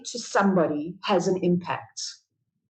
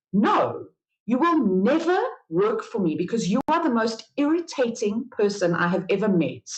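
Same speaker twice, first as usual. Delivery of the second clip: losing it. Retold or imitated. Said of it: "I just lost it the one day and I said".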